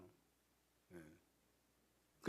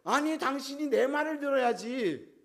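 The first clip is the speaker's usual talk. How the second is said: high, drawn-out retort; insistent, slow, raised-pitch comeback; arguing wife; 7 semitones higher, 3 dB louder, slower than usual. Acted. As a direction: play a wife answering back in a quarrel. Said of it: "그럼 부인은 뭐라 그래요?".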